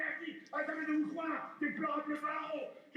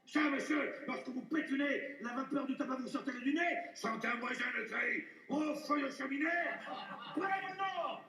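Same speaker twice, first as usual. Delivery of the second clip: truculent. Acted. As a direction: roar it out with coarse glee.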